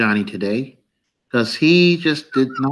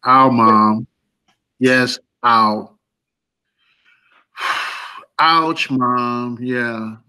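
robotic ow; 4 semitones lower, much slower than usual. Retold or imitated. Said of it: "robotic ass ow".

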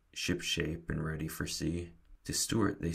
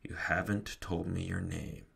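plain reading voice

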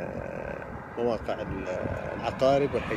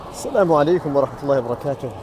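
loud greeting; 4 semitones higher, 10 dB louder, faster than usual. Real, not acted. Loud morning greeting to camera.

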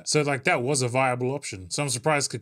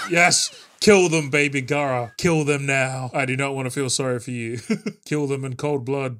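loud, fired-up cheering; excited cheering; 5 dB louder than usual. Real, not acted. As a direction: egg him on, shouting. Cheering Gaara to kill.

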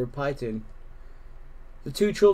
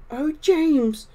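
tender whisper; 14 semitones higher, 6 dB louder than usual. A narrator's reading. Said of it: "Harriet whispered".

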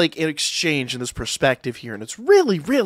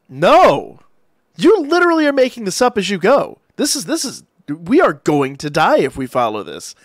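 louder, higher panicked objection; alarmed protest; 4 semitones higher, 4 dB louder than usual. Retold or imitated. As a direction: push back hard, mock-frantic. Daphne protests the crazy plan.

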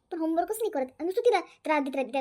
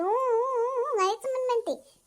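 imitating a fussing baby; 6 semitones higher, much slower than usual. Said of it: "आता मी काय, काय म्हणते".

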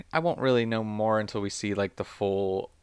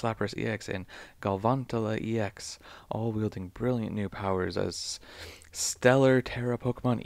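reading voice. Shown as a demonstration. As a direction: read it like a product blurb. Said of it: "put on my best reading voice".

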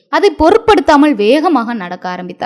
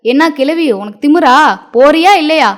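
a raised, menacing warning; threatening; 3 semitones higher, 3 dB louder than usual. Acted. Muniyamma threatening the old neighbour, rising to a loud threat. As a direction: drive the old woman out, louder at the end. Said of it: "மிரட்டினாள் Muniyamma".

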